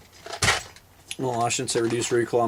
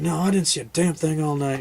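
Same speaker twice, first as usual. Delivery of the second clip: put-on annoyance, slightly higher; acting mad; 5 semitones higher than usual. Hunter telling buddy he saw nothing, feigning mad. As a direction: grumble it as if pretending to be mad. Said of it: "all acting all mad".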